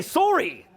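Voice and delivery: "sorry" with a long O, like "sore-ee"; Canadian pronunciation. Shown as a demonstration. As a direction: say "sorry" the Canadian way, rhyming with "story". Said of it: "how we pronounce it in Canada".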